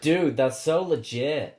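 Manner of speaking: slow, drawn-out American dude accent; imitated American accent. Shown as a demonstration. Australian host imitating the American guest, slow American accent. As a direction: mimic a dippy American accent, slowly. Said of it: "why don't we try to imitate her accent?".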